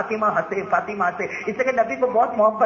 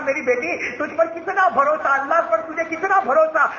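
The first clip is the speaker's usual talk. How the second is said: with love; 8 semitones higher than usual. A narrator's reading. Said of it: "مارے محبت کے".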